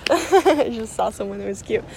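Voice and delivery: giddy laughing through the words, then a burst of laughter; imitating her sudden giggly delight. Sister-in-law retold, laughing.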